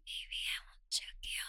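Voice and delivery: soft, unvoiced whisper, very close; intimate whisper. Lover whispering close to her partner, a hushed intimate whisper. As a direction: keep it hushed and tender, all breath.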